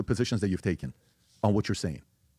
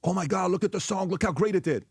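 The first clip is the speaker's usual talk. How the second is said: mock excitement; 9 semitones higher than usual. Mocking fans hyping a hit song.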